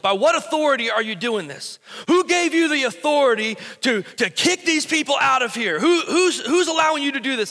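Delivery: religious leaders confronting Jesus, indignant; indignant challenge. Retold or imitated. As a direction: demand answers like an offended priest.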